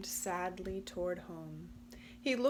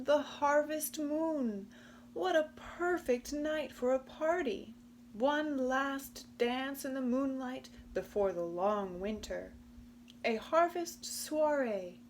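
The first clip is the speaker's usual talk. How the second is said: higher, bright-eyed party planner; excited Possum; 4 semitones higher than usual. Acted. Possum planning a moonlight party, higher and excited. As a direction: gush with excitement about the party.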